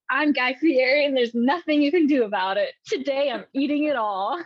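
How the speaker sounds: lightly voiced loud TV host; a touch of bombastic host; Guy Fieri. Reads Guy Fieri's scripted lines.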